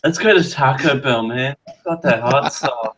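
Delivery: stoner voice. Pretend. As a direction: talk like a baked surfer dude. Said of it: "Why do we all have a stoner voice?".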